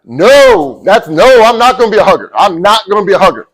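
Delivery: retold loud protest; emphatic refusal. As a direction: refuse it like a stubborn football player. Refusing the professor's hugger order.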